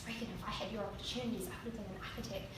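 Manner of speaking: soft, fast echo of dad; quiet remembered voice. Retold or imitated. Dad's voice in memory.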